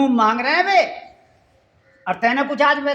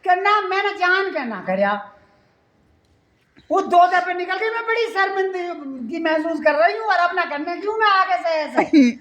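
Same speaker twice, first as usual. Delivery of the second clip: put-on higher, fretful young wife; wife's voice; 5 semitones higher than usual. Wife telling husband she is ashamed, in a higher pleading voice. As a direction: raise the pitch and plead.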